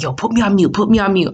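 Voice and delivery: mock urgent request; imitating urgent friend. Retold friend urging on the phone.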